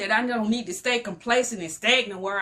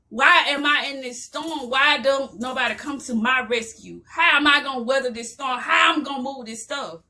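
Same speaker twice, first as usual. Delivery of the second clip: raised, pleading cries, building to a shout; crying out to God; 2 semitones higher than usual. Retold or imitated. Alone in the doorway, begging God for rescue, rising to a shout. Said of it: "I'm crying out".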